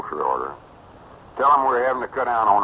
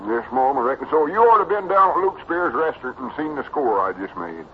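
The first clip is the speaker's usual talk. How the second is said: high country lad, bragging; Cedric, boastful boy; 7 semitones higher than usual. Acted. Cedric telling of his pinball score, proudly boyish. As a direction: brag in a simple, excited boy's voice.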